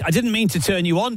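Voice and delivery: high, hammed-up soap confession; melodramatic line. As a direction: deliver it like a TV whodunit. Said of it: "there's a whole drama in this".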